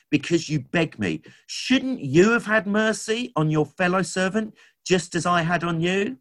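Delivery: a hint of an angry king scolding his servant; stern master's rebuke. The master rebukes his wicked servant, mildly stern and reproachful.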